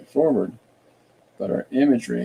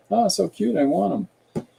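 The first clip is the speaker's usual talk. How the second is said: high, gushing coo; cooing over a cute thing; 10 semitones higher than usual. Acted. City folk spotting the cute bunny, high gushing coo. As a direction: gush over it like it's adorable. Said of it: "look back at the bunny and go".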